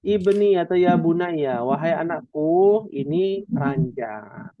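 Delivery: slow, coaxing words to a little one; gentle mother to child. Pretend. Mother showing her child the bed, slow and tender. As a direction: teach your child slowly and lovingly. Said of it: "Kalau punya anak bilang".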